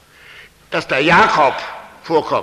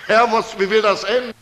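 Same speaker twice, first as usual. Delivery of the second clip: crying out; 4 semitones higher, 3 dB louder than usual. Retold or imitated. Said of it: "er doch schreit in der Einsamkeit".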